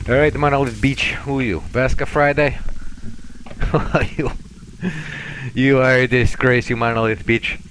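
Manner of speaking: mock-Russian taunting of a prisoner; scornful put-on Russian gunman; fake-Russian captor. Confronting a captured cultist, fake-Russian captor's scorn.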